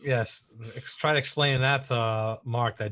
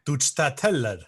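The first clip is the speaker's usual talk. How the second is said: German accent. Shown as a demonstration. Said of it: "I said it in a German accent".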